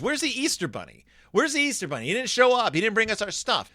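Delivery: voicing panicked cubs missing their Easter things; distressed kids. Cubs fretting to Mom and Papa, high and upset. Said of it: "are distressed".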